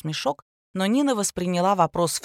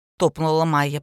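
plain reading voice

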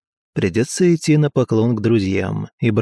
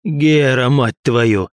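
angry male bass; 3 semitones higher, 4 dB louder, slower than usual. Acted. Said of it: "гневный мужской бас".

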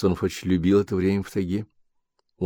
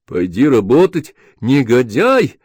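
louder, spitting out the insult; angry yell; 4 semitones higher, 5 dB louder, slower than usual. Acted. Wife yelling at husband, louder. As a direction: hurl it at him.

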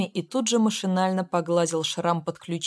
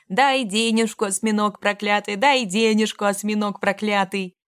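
repeated yelling; 2 semitones higher than usual. A narrator's reading. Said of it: "И ещё раз, и ещё".

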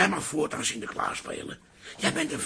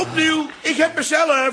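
louder, higher cry of dismay; exasperated exclamation; 8 semitones higher, 5 dB louder than usual. Acted. Father cries out he drew himself, exasperated. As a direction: announce it in frustration. Drew own name in lottery.

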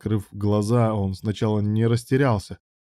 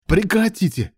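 much higher, louder cry to stop a fight; shouting stop; 11 semitones higher, 3 dB louder than usual. A narrator's reading. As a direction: break them apart with your voice. Breaking up a fight.

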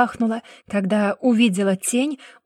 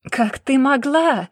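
slow, loud, higher angry growl; growling roar; 4 semitones higher, 4 dB louder, slower than usual. A narrator's reading. Brother roars at the woman in slow fury. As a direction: roar the question at her. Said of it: "Рычание Верана было похоже на рёв".

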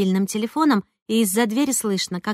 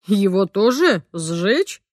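frowning question; much slower than usual. A narrator's reading. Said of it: "нахмурился папа".

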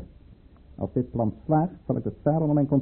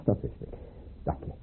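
whispered aside; 10 dB quieter than usual. Acted. Peter pleased aside.

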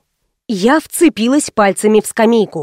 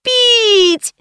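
put-on much higher child's scream; 12 semitones higher than usual. Thirsty girl screams at mother, high scream. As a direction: bawl it like a tantrum. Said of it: "орать благим матом".

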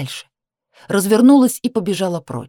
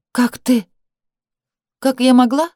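shocked disbelief; 7 semitones higher, 4 dB louder than usual. Acted. Heroine confronts sister, shocked.

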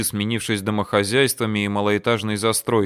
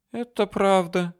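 high and slow, breezily agreeing; easy agreement; 9 semitones higher, slower than usual. Acted. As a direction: toss it off lightly as Ali. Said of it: "легко согласился Али".

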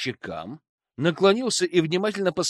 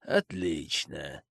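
satisfied; 11 semitones lower, 7 dB quieter, much slower than usual. Acted. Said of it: "довольно произнёс Фрэнк".

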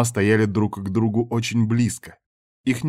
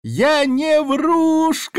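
put-on much higher, louder and very slow child's cry; little girl shouting; 5 dB louder, much slower than usual. A narrator's reading. Little girl shouting from the tree that she is no liar. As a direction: shout out that you are no liar. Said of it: "крикнула девочка".

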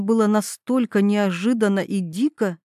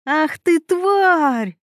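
higher and angrier, yell the insult; 7 semitones higher, much slower than usual. Acted. Mila yells at Veronika, who is pulling her hair. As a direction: roar it out in rage as she is grabbed by the hair. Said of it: "заорала Мила".

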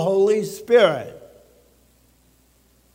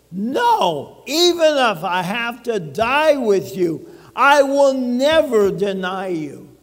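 a touch louder, firm vow; emphatic; 2 semitones higher, 3 dB louder than usual. Acted. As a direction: insist with full conviction, pressing never. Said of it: "Very emphatic".

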